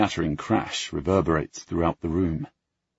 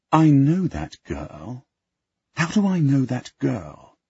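puzzled man; 8 semitones higher, 3 dB louder, slower than usual. Acted. Henry puzzling over the girl.

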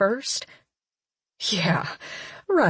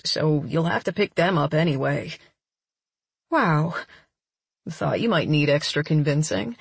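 a touch lower, playful man; lightly voiced man; 4 semitones lower than usual. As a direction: voice the boyfriend lightly. Daniel's lines in story.

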